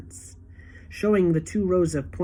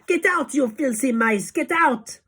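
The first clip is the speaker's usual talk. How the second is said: higher, furious shooing; mock angry shout; 8 semitones higher, 4 dB louder than usual. Witch voices teachers chasing mice, mock angry shout. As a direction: shoo them out in disgust.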